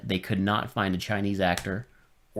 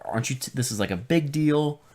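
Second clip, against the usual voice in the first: lightly voiced stern master, higher; scolding the student in a mild mock master voice; 6 semitones higher than usual.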